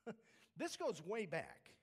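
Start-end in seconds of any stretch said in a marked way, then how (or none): 0.1-0.1 high, drawn-out little-brother protest; hammed-up exasperation, pitched way up and stretched slow; exasperated David. David to his angry older brother, exasperated protest. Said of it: "David looks at him and says".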